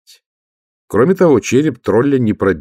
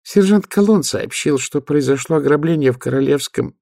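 high nasal voice; 7 semitones higher than usual. Acted. Nobby speaks.

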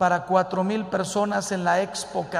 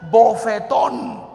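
sonora bofetada; 2 semitones higher, 10 dB louder, slower than usual. Acted. Pelea de pareja actuada.

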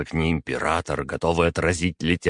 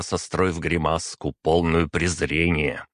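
ordinary delivery

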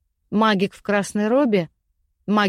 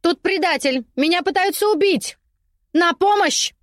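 much higher, louder cries of help; screaming for help; 9 semitones higher, 3 dB louder than usual. Acted. Trapped lady screams for help through the castle. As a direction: yell for the guards in panic. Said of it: "закричала она".

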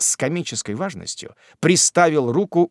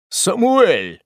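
calling out; 6 semitones higher, 4 dB louder than usual. A narrator's reading. Master calls his servant.

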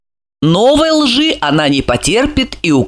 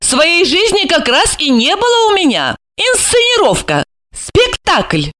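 high, bitter and grieving; bitter woman's voice; 9 semitones higher than usual. A narrator's reading. Alexandra bitterly explains her staged life to Gorokhov. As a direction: explain it with sorrow. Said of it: "Горестно покачав головой".

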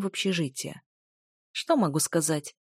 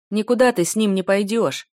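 louder, enraged bellow; furious roar; 3 semitones higher, 6 dB louder than usual. Acted. Furious blond forbidding the girl to leave, roaring. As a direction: roar it at the whole street. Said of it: "взревел на всю округу разъярённый блондин".

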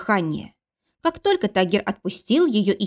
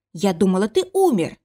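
repeated outburst. Acted. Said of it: "Ты повторяешься!".

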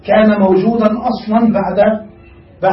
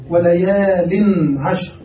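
slow, measured recitation of the verse; Quran recitation; much slower than usual. Shown as a demonstration. Teacher reciting the verse slowly for his students. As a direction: draw each word out as in tajwid. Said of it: "تقرأ قول الله تعالى".

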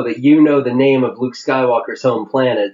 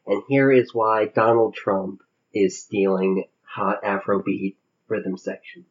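softer, lower public radio host voice; Ira Glass; 5 semitones lower, 6 dB quieter than usual. Acted. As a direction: ease into a hushed radio host murmur. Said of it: "that's a pretty good Ira Glass".

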